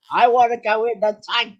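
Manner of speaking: high, loud insistent demand; re-enacted shouting. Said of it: "I was shouting".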